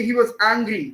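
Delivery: "was" reduced, "angry" leaned on; stress on ANGRY. Shown as a demonstration. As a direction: slip over "was" and land on "angry". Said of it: "unstress होते हैं".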